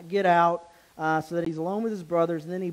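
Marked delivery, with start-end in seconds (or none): 0.1-0.7 a firm mock shout of get out, somewhat louder; retold shout clearing the room; retold yell. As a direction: bark the order out at the room, half acted. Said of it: "he just yells at them all".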